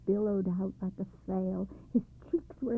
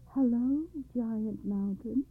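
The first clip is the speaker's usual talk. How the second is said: even more respectfully; 3 semitones higher, slower than usual. Acted. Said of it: "said the girl even more respectfully".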